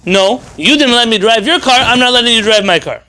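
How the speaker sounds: spiteful refusal. Retold or imitated. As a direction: throw the refusal back at him. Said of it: "The other one is".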